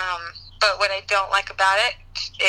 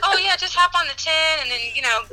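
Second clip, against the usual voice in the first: Californian talk; 4 semitones higher than usual. Retold or imitated. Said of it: "They do talk like that".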